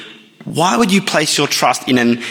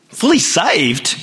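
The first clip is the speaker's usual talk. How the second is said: incredulous; 5 semitones higher, much slower than usual. Acted. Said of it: "you say".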